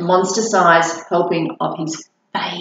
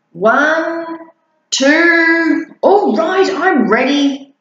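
higher, louder hurried little voice; panicky monster child; 7 semitones higher, 4 dB louder, much slower than usual. Acted. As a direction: rush to agree before three.

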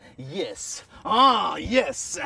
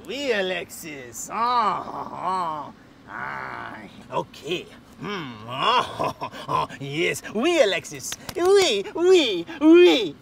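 fake French accent; 3 semitones lower, much slower than usual. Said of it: "what happened to your accent".

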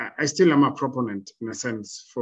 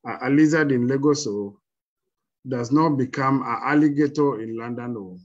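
put-on Nigerian accent; 2 semitones higher, 4 dB louder than usual. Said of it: "told it to me in a Nigerian accent".

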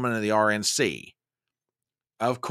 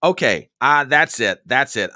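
fed up; 6 dB louder than usual. Real, not acted. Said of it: "I'm ready to tee off".

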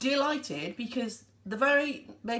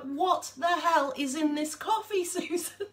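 amazed, laughing; 5 semitones higher, slower than usual. Retold or imitated. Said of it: "She's like".

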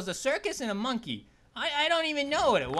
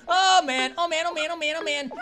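higher, rapid-fire muttered alarm after a loud start; nervous panic; 4 semitones higher, 5 dB louder than usual. Real, not acted. Player nearly falls during sign-off, nervous panic. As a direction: repeat it anxiously.

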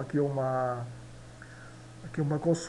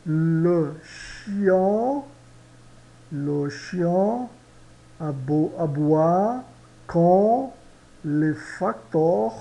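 slow French model; much slower than usual. Shown as a demonstration. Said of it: "a segunda palavra".

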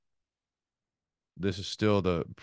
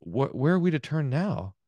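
mock crying out; 3 semitones higher than usual. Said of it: "crying out".

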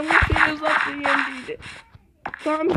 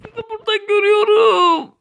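mock crying; 4 semitones higher, 5 dB louder than usual. Character cries in game.

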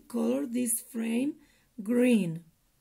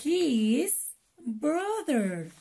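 slow model word; 3 semitones higher, slower than usual. Shown as a demonstration. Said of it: "practiquemos un poco cómo deletrear".

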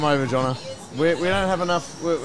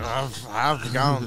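South African; 4 semitones lower, slower than usual. Retold or imitated. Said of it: "for us, we just went".

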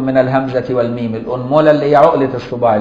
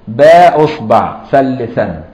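باء said slowly and louder as its own word; reading lesson; 4 dB louder, slower than usual. Shown as a demonstration. Teacher to students, showing how to read it. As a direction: lean on باء before أصبع. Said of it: "اقراها كده".

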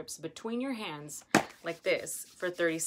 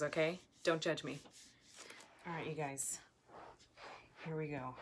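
ordinary talk, nothing marked

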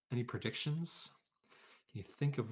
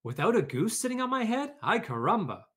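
squawking chicken, much higher, louder and fast; frantic hen, higher and louder; excited chicken cry; 9 semitones higher, 5 dB louder, faster than usual. A narrator's reading. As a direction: blurt it out in a flustered squawk. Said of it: "cried the chicken".

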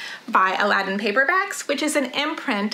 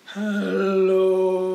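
low, growly dinosaur hello; low bear voice; 5 semitones lower than usual. Shown as a demonstration. Teacher playing a bear for the kids, low hello. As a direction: drop down deep like a T-Rex. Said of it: "as low as we can".

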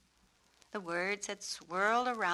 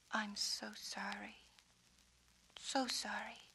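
soft unvoiced apology; whispering; 8 dB quieter than usual. Suki whispering comfort to the peacock. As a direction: whisper it gently to the bird. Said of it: "and whispered".

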